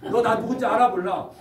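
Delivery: 1 threatening. Acted. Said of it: "협박으로 전도하는 겁니다".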